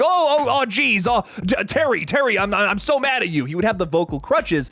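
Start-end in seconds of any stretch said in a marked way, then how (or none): 0.0-3.5 lightly voiced nervous stammer, pitch up at first; stammering Corvo imitation. Host imitating Roiland's old Corvo, a mild stammering take. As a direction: stumble over the words like a flustered alien. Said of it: "like, the stammering".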